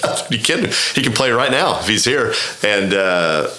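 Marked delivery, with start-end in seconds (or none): 0.0-2.3 much higher, laughing in disbelief, retelling his own excitement; excited disbelief. Retold or imitated. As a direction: bubble over like a fan who can't believe his luck. Thrilled that Tiger wants to play.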